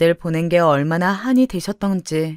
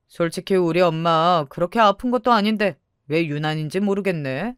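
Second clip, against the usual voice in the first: lightly voiced accusing brother-in-law; a hint of dismissive family grievance; resentful brother-in-law. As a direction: needle a sister-in-law with mild scorn.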